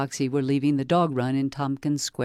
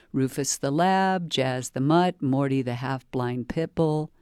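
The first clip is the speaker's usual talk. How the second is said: ordinary delivery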